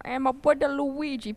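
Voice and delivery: high, slow cartoon greeting; playful drawn-out Mario imitation; Mario meme voice. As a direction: imitate a meme character calling his buddy. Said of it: "le mème où que Mario est comme".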